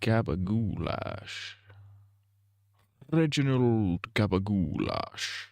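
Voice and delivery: slow, lightly voiced pompous gentleman; new character. A made-up gentleman presenting himself, slow and lightly voiced. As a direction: introduce yourself grandly and slowly. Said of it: "It's a new character".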